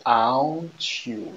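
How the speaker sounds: very slow English in a French accent. Real, not acted. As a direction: draw each English syllable out, French accent intact. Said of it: "excusez mon accent anglais". (anglais très étiré avec accent français)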